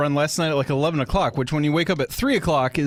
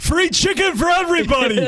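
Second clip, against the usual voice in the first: Colonel Sanders voice; 4 dB louder than usual. Pretend.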